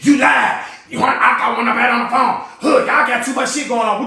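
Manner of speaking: imitating her mom yelling it down the phone; retold yelling. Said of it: "you heard what your mama said".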